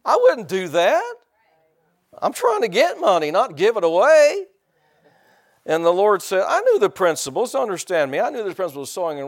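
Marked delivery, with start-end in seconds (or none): 0.1-4.5 worked-up retold protest; indignant protest. Comic protest about giving money away.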